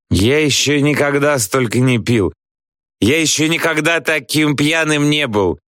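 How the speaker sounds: put-on high-pitched drunken amazement; amazed. A narrator's reading. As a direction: marvel at it in a high voice. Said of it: "изумляется Чебыкин". (пьяное изумление высоким голосом)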